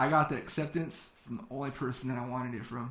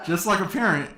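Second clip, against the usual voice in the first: loud, higher line through real laughter; laughing; 6 semitones higher, 3 dB louder than usual. Real, not acted. Speaker joking about the mentor not answering, laughing. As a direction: laugh it out, amused at him. Laughs while telling the story.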